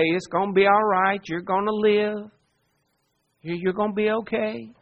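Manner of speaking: gently reassure, a touch hushed; soothing parent. Acted. Parent to a child with a skinned knee, soothing.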